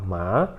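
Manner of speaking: "ma" rising from low as in a question; questioning second tone. Shown as a demonstration. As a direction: say "ma" as if asking. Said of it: "fazendo uma pergunta".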